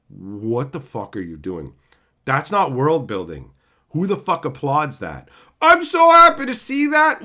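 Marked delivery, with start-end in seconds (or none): 5.6-7.2 mock delight. Mocking fans who applaud.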